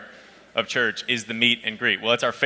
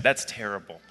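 straight-faced sympathy; 3 semitones lower than usual. Retold or imitated. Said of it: "took it off mute and I said".

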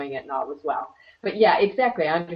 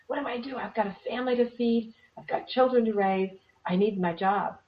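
worried seminar-goer; 5 semitones higher than usual. Retold or imitated. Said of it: "People used to come... and say".

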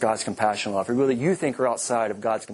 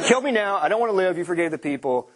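Jonah's tantrum; 4 semitones higher, faster than usual. Retold or imitated. Jonah demanding to die because God forgave the people, hammed-up tantrum. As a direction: throw a sulky fit.

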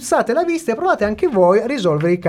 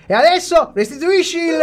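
higher, crying plea to give it back; whiny wail; 7 semitones higher than usual. Acted. Host scolds Giuseppone for the theft, whining. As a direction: whine it like a sulking child. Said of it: "non c'è bisogno di fare la lagna".

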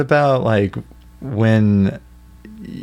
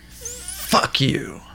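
Walter; 6 dB quieter than usual. Retold or imitated. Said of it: "he's like".

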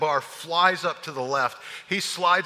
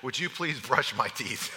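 worn out plea; 5 semitones lower, 6 dB quieter than usual. Retold or imitated. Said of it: "I said".

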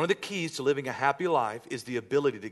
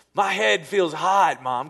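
put-on whiny kid; 3 semitones higher, 7 dB louder, slower than usual. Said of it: "I wouldn't even like".

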